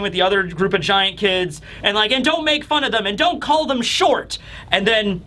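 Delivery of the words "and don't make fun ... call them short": higher, lightly voiced child's telling-off; indignant kid. Giant kids arguing over the humans, indignant. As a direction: scold like a child on the playground.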